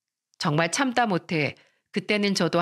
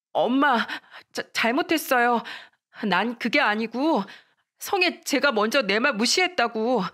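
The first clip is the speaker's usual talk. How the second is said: higher-pitched, stammering excuse; flustered apology; 4 semitones higher than usual. Acted. Daughter excusing herself to her angry mother, flustered. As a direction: plead your case to mother.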